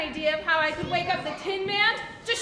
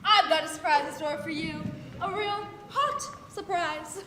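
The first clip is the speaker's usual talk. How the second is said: lower, scornful taunt; sneering witch; 4 semitones lower than usual. Acted. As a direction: tease the mattress with menace.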